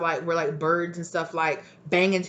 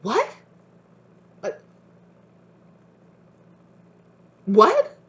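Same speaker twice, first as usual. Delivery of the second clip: baffled guides; 5 semitones higher, 7 dB louder, slower than usual. Retold or imitated. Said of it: "they're like".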